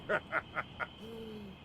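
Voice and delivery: high-pitched villain's laugh; mocking laugh. Unseen villain laughs at the couple, mocking. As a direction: laugh tauntingly at the lovers. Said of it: "that voice that was mocking you".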